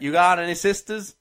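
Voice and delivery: put-on Southern US chat-up; mock American accent. Co-host joking as an American stranger, mock Southern US accent. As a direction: keep up the American twang. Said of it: "pass myself off as American".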